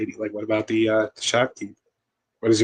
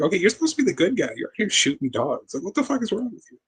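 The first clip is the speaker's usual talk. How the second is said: exasperated disbelief; 9 semitones higher than usual. Retold or imitated. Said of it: "He's like".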